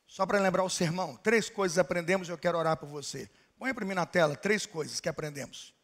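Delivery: low, soft pastoral voice; calm closing. Acted. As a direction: settle the church gently toward prayer. Quiet closing before prayer.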